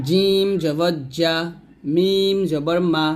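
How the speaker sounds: slow spelling-drill recitation with long-held letter names; read-along drill. Shown as a demonstration. Teacher leading learners to read along, slow drill recitation. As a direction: draw out each letter name, then land the syllable. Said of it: "আমার সাথে আপনারা পড়বেন".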